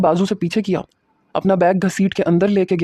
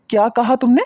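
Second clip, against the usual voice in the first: higher-pitched shout, outraged; 5 semitones higher than usual. Acted. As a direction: yell it back at her in disbelief. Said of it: "میں نے چلا کے کہا". (اونچی آواز میں چلا کر)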